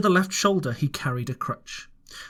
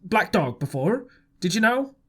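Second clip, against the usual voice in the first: Silver speaking sternly; 4 semitones higher than usual. A narrator's reading. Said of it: "very sternly".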